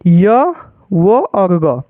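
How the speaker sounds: very slow, each sound held apart; drawn-out sounds. Shown as a demonstration. Teacher listing trick sounds to learners, drawn-out demonstration. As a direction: spell out य, वो and ग slowly with gaps. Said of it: "इसका भी trick आप लोग देख लीजिए".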